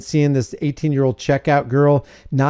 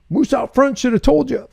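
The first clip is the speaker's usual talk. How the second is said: higher, sing-song deadpan quip; mock John Candy; 10 semitones higher than usual. Mocking the fake news, a higher playful movie quote. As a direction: toss the movie line off in a high teasing voice. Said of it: "John Candy comes out and goes".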